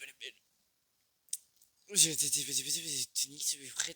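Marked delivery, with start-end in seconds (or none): 1.9-3.9 excited. Real, not acted. Excited gaming outburst.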